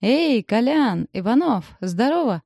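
slow shout across the market. Acted. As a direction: call out loud and long. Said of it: "на весь рынок орёт".

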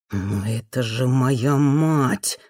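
low, slow, annoyed hiss; hissed reply. Acted. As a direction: push the words out through annoyance. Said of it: "прошипел в ответ недовольный мужской".

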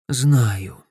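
ordinary delivery

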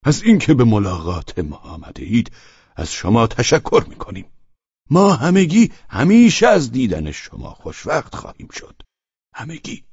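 deliberate stressed words, rising on همیشه; weighty emphasis. Acted. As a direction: lean on each word formally. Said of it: "روی کلماتش تکیه کرد".

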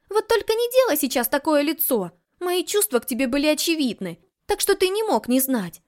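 mock his excuse; scoffing. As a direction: heroine scoffing at Samuel, high and loud. Heroine scoffs, hands on hips.

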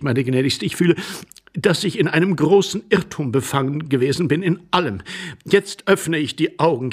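put-on effusive, stumbling elderly gentleman; gush, then catch yourself and correct it; flustered apologetic suitor. Nervous intruder pleading with a lady, effusive and flustered.

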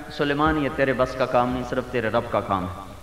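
soft, low, calm reply; gentle divine answer. Retold or imitated. God gently refusing Solomon, soft and low.

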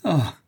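short, high "ah" of pain; understated cry of anguish, falling away; heartrending cry. A narrator's reading. Daughter struck by the word mother, anguished cry. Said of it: "avec un cri déchirant".

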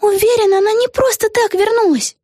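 lightly voiced young girl, high; a hint of a worried girl; girl character voice. A narrator's reading. Vega to Peggy, a lightly voiced girl.

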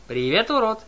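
high, loud mocking call; taunting shout. A narrator's reading. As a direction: yell the insult to provoke. Annabeth taunts from hiding.

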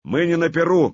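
high, loud retort; angry shout. Acted. Artyom rejects the prince's mockery, angry shout. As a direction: fling it back hard. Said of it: "крикнул Артём".

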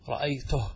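رأيته ending on a bare h; pausal ha. Shown as a demonstration. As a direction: say رأيته as "ra'aytuh". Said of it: "تقف على الهاء".

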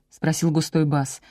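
ordinary delivery

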